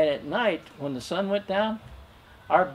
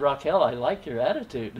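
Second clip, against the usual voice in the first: laughing. Real, not acted. Reply to wife, laughing.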